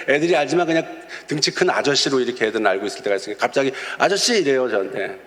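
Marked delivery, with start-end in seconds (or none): 4.0-4.4 calling out. Retold or imitated. Kids suddenly calling out to him.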